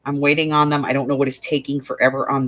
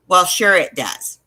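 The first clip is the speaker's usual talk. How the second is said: slow, lightly snarky comeback; 2 semitones higher, slower than usual. Retold or imitated. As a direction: imitate a smug agent insisting.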